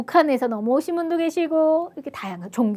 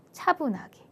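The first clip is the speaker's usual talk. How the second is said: softer, composed delivery; calm; 3 semitones higher, 6 dB quieter than usual. Shown as a demonstration. Teacher urging even good words be said composedly, calm. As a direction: ease down, calmly and softly. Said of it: "흥분하는 게 아니라 차분하게".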